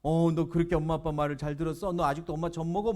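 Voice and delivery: mild acted taunt; playfully mocking questions; teasing. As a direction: needle a friend for obeying his parents. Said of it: "막 이러면서 막 놀리는 거예요".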